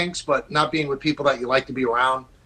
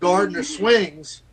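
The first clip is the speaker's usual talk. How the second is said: home run call; 3 semitones higher, much slower than usual. Shown as a demonstration. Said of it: "Do a Brett Gardner home run call".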